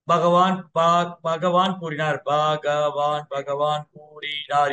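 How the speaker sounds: very slow, drawn-out syllables; laboured spelling-out, stretched on a level tone; halting learner's reading. Shown as a demonstration. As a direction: sound out each syllable like someone who can barely read. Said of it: "இப்படி கூட படிக்க தெரியாது".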